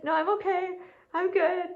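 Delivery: high, over-bright retold brush-off; insistent refusal. Telling a girl who asked five times, insistent refusal.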